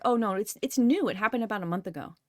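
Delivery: lightly voiced elderly couple; older people.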